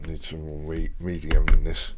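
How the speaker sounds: talking around a brush held in teeth. Real, not acted. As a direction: mumble past the brush in your mouth. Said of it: "I'm holding the brush in my teeth".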